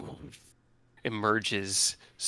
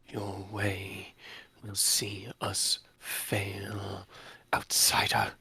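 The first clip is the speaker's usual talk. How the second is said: villain voice; 5 dB louder, slower than usual. Acted. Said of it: "she smiles, goes".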